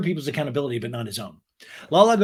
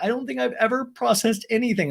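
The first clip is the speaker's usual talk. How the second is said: high, lightly weepy imitation; mock crying; 9 semitones higher than usual. Recapper imitating Ariana crying to Lisa, mock tearful. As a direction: whine it tearfully, pitched way up. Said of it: "Ariana's still crying in that scene".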